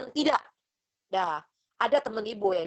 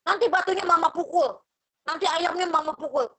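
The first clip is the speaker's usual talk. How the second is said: coaxing mother; 6 semitones higher, 4 dB louder than usual. Retold or imitated. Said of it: "kamu nggak boleh ngomong kayak gitu".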